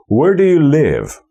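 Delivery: "Where" and "live" stressed, high arch falling at the end; first and last stressed. Shown as a demonstration. Teacher modelling the pattern, stress on first and last. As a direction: lean on "Where" and "live", link "do you". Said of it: "Pierwsza i ostatnia".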